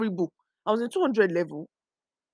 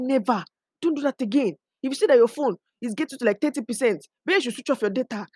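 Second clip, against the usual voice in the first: lightly acted scolding father, pitched up; mortified father; 5 semitones higher, 4 dB louder, faster than usual. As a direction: retell a dad's stern telling-off, fast toward the end. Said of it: "he was mortified. I could hear it through his voice".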